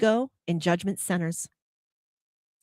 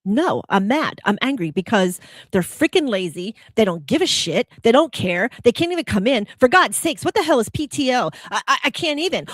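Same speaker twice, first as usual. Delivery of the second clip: raised, louder, exasperated rant; angry rant; 4 semitones higher, 5 dB louder than usual. Acted. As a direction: play the judgment center fed up and venting. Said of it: "our judgment center says".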